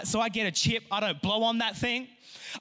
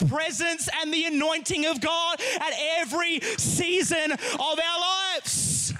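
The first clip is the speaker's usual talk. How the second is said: preaching; 3 semitones higher than usual. Acted. Preacher urges congregation to hunger for God, building fervor. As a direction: build the sermon to a passionate close.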